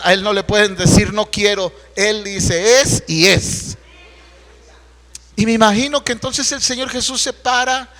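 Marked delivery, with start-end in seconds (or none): 0.0-3.8 preaching at force. Acted. Predicación enfática.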